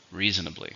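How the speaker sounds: "Reasonably" stressed on REA, falling after it; stress on first syllable. Shown as a demonstration. Teacher models the word for learners, stressing REA in "Reasonably". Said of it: "Stress is on the first one".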